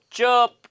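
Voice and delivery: चर्प said with a long vowel and silent r; demonstrated pronunciation. Shown as a demonstration. Teacher shows students how चर्प is read, demonstrated pronunciation. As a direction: say चर्प drawn out, ending on p. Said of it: "ऐसे पढ़ते हैं".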